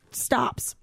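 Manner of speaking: whispered for suspense; suspenseful whisper. Acted. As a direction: drop to a hush on the twist. Suspense beat in the story.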